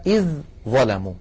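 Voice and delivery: تلاوة مع إدغام الذال في الظاء; Quranic recitation. Shown as a demonstration. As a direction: recite إذ ظلموا with the ذ merged into ظ. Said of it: "مثلًا خذوا قوله تعالى".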